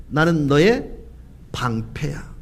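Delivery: hushed reassurance. Acted. God reassures fearful Abraham as his shield, hushed.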